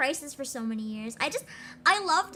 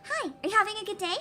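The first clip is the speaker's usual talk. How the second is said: fast, lightly perky greeting; perky but not jarring; 5 semitones higher, much faster than usual. Shown as a demonstration. Offering a less jarring dub take, fast and light. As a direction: keep it cute but natural. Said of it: "still hi, but not jarring".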